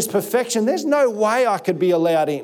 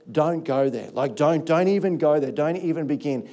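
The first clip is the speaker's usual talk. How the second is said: lower-pitched talking to yourself; self-warning; 4 semitones lower than usual. Retold or imitated. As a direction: warn yourself off, as if resisting temptation. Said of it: "I've said to myself".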